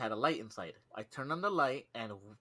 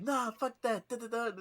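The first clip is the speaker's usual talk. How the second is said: higher, laughing brush-off; dismissive coworker; 10 semitones higher than usual. Retold or imitated. Coworker refusing to leave the moths, laughing brush-off. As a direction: wave it off childishly. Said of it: "He's like".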